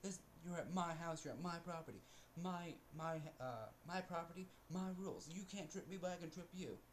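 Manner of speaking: bossy mock voice. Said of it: "you're like".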